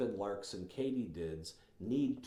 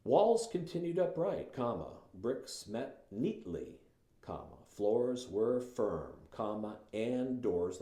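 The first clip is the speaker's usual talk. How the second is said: slow, deliberate reading naming each comma; slower than usual. Shown as a demonstration. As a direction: linger on every comma. Reads passage with commas.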